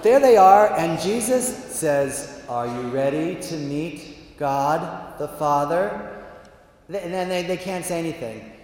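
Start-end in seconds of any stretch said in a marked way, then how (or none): 2.5-6.2 slow, measured question; solemn invitation. Acted. Jesus to the visitors, solemn and slow. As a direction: ask it slowly, with weight.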